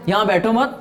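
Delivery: यहाँ बैठो मत joined, rising into a break; no gap between बैठो and मत, stop after मत; pause after मत. Shown as a demonstration. Teacher contrasts the double meaning, pause held after मत. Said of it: "इस pause को यहाँ से हटाओ".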